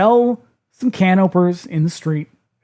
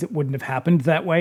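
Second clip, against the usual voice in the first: plain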